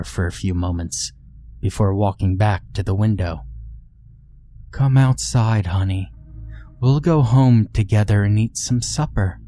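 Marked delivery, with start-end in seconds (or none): 4.7-9.4 soft cooing. Acted. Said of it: "the woman outside softly cooed".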